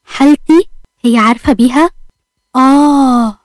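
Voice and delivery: a mild angry disbelieving question, pitch jumping up; lightly acted husband losing his temper; understated angry outburst. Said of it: "عمر بعصبية".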